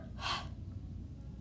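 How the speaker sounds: long breathy exhale after a rushed read; out of breath gasp. Shown as a demonstration. Teacher gasping after the breathless demo read. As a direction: let out the breath you held. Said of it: "I'm kind of running out of breath".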